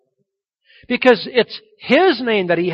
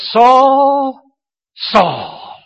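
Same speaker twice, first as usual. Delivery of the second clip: loud, stern double call of the name; Jesus confronting Saul, loud and stern; emphatic call; 4 semitones higher, 7 dB louder than usual. Retold or imitated. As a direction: call him out like a father catching a son. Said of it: "just say it for emphasis' sake".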